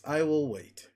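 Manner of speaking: voice crack. Real, not acted. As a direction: voice cracking on the words. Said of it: "Also, voice crack".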